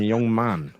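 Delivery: lightly voiced Clough, dry and stern; a hint of the old manager's put-down; understated Clough impression; Brian Clough voice. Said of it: "That's Brian Clough".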